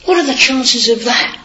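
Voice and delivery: mock voice of doubters questioning faith; sceptical people. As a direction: imitate a doubter's shrug. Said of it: "a lot of people will say".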